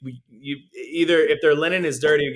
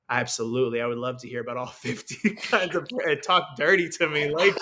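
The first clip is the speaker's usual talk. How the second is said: mock rapture; 2 semitones higher than usual. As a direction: ham up the bread ecstasy until you crack up laughing. Mock delight at bread menu.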